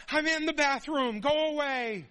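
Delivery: high, loud exasperated shout; from another room. Retold or imitated. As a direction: yell through a closed door. Parent shouting through bathroom door.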